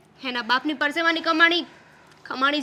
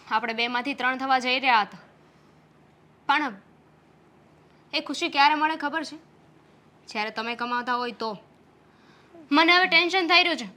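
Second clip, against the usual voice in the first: sad worry. Acted. Wife voices worry about the baby. (દુઃખી, ધીમા અવાજે ચિંતા)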